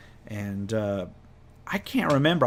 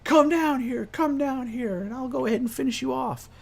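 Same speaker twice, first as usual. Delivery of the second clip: high-pitched acted yell at normal volume; high, sustained mock shout; 14 semitones higher than usual. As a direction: holler up at the dragon in a strained high voice. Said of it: "shouting at the dragon".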